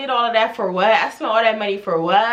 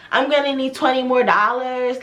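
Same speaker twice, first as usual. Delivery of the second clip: mock young talk. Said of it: "she talked really, like, young".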